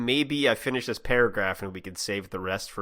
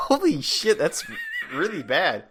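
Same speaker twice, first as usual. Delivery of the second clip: Donald Duck voice; 9 semitones higher than usual. Shown as a demonstration. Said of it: "hold it in your mouth".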